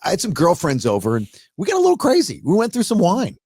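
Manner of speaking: quick, lightly voiced teenage confession, rising in pitch; teenager-esque mother. Mother confessing wine with girlfriends to son, teenager-esque. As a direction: lightly imitate a mom gone girlish over a wild night. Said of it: "teenager-esque".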